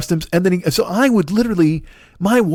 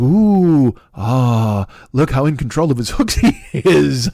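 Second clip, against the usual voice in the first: mock awe; 2 semitones lower, much slower than usual. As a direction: gush like an awed spectator. Mocking the audience's fake awe.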